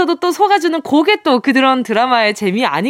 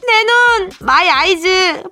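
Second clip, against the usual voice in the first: dramatic cry; 5 semitones higher, slower than usual. Acted. Hammed ad cry for eyes.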